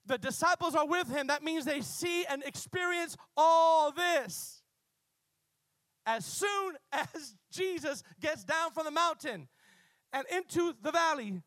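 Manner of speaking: loud, slow preaching cry; rising fervent sermon shout. Real, not acted. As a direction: proclaim it at full force.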